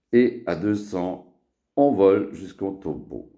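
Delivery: emphatic list-like verse; poem recitation. Acted. Poet listing car makes to a friend, poem recitation. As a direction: recite it as a roll call, name by name. Récite son poème BMW.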